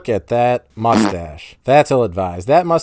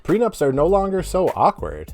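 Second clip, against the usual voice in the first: silly voice; 6 semitones higher than usual. Shown as a demonstration. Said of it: "embarrassed for even talking in that voice".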